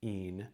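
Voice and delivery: "Cain" as KA, a break, then EEN; separated syllables. Shown as a demonstration. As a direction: pull "Cain" apart into two separate pieces.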